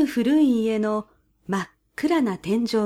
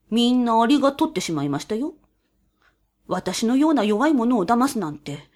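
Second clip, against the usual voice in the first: whiny mouse. A narrator's reading. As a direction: whine like a wronged mouse. Mouse voiced in story.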